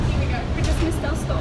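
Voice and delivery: loud, fed-up groan of a line; exasperated. Retold or imitated. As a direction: announce the missed stop in exasperation. Exasperated at missing the stop.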